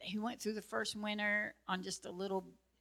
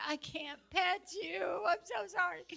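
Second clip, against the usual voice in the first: pitying pet talk; 10 semitones higher than usual. Retold or imitated. Owner allergic to cats apologises to him, high cooing pity.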